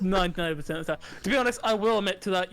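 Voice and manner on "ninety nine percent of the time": laughing echo. Real, not acted. Echoing her phrase, laughing.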